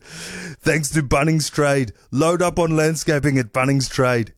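put-on slow, heavy Austrian accent. Second try at sponsor line for guessing game, mock Austrian accent. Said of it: "That's Austrian".

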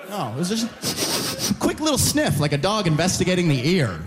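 ordinary delivery

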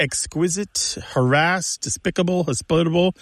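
ex-QUIS-ite, har-ASSED, de-SPIC-able, hos-PIT-able for "exquisite", "harassed", "despicable", "hospitable"; second-syllable stress. Shown as a demonstration. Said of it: "that stress in the pronunciation to the second syllable".

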